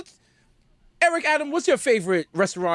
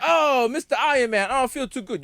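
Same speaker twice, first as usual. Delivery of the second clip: 1 lightly voiced Spider-Man; 4 semitones higher than usual. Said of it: "Spider-Man was like".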